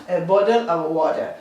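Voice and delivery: "a bottle of water" read as an English model; English example. Shown as a demonstration. Teacher reads an English example to the class. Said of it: "podemos decir una botella de agua".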